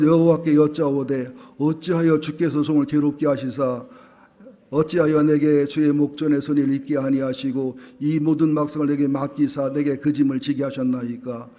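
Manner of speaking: steady, even-pitched verse reading; scripture reading. Acted. Pastor leading the congregation in Moses's complaint, scripture reading. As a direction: read the verse aloud in a measured chant-like line.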